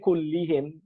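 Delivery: Kullihim with i vowels, as the rejected form; wrong form Kullihim. Shown as a demonstration. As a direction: contrast Kullihim against Kulluhum. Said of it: "he didn't say".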